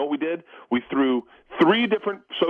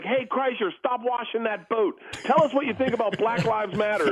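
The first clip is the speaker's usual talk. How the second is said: someone's like; 8 semitones higher than usual. Retold or imitated. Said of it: "someone's like".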